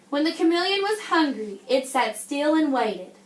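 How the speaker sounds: put-on reading a picture book to children; story reading.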